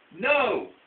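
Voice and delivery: loud high no; yell. Acted. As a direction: call it out loudly. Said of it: "yells Duck".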